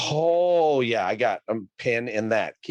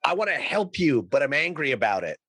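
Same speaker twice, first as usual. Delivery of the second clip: mock Karen; 5 semitones higher than usual. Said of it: "She's like".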